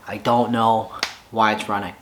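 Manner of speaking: low, deflated admission of defeat. Real, not acted. Frustrated owner admits defeat over his motorcycle, deflated. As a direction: sigh out "I don't know why it's running" like you've given up. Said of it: "I was absolutely defeated".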